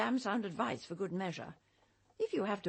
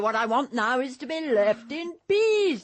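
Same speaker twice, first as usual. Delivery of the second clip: angry insistence; 6 dB louder than usual. Acted. Angry at Cordelia.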